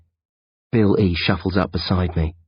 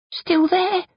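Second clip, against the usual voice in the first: higher, lightly voiced teen boy; boy's voice. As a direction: voice the worried young friend. Bill E voiced.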